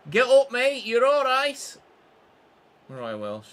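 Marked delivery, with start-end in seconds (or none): 0.1-1.8 loud, high call to a downed player. Real, not acted. He urges his hurt player up with a loud, high call. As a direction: shout encouragement at the screen.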